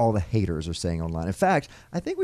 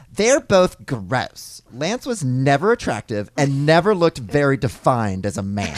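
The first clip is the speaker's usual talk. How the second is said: hammed-up online troll, drawn out and louder; 4 dB louder, slower than usual. Host voices an internet troll's comment, drawn-out mock disdain. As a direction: read it like a scornful troll, stretching the insults. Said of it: "in the way we think the online troll would sound".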